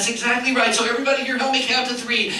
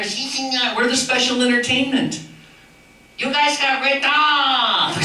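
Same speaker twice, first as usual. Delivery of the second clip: Chihuahua puppet voice; 3 semitones higher, slower than usual. Acted. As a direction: voice the cheeky little dog. Puppet Chico speaks.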